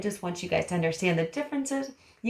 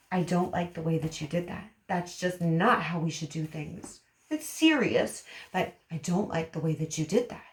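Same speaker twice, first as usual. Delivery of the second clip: firm disapproval; 2 semitones lower than usual. Shown as a demonstration. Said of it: "more firm".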